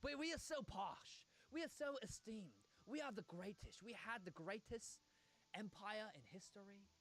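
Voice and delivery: self-important British accent, hammed up; mock posh British. Streamer mocks British pride in empire, posh British accent. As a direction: boast in a put-on posh British voice. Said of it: "it's such a larp".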